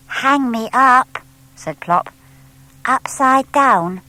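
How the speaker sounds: high, slow, alarmed little voice; horrified at hanging upside down; a small owl's mild alarm; dismayed owlet. A narrator's reading. Plop alarmed at bat facts.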